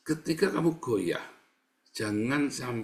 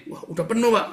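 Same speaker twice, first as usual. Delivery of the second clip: tag; 9 semitones higher, 6 dB louder than usual. Acted. Memerankan orang melihat wadah penuh.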